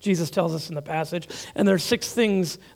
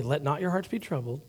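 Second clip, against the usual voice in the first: soft reassurance; 4 semitones lower, 6 dB quieter than usual. Shown as a demonstration. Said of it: "Let's pause there".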